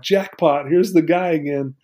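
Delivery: mock a child's happy recognition; retold beaming delight. Little girl sees the guy again, lightly imitated delight. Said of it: "she just starts beaming".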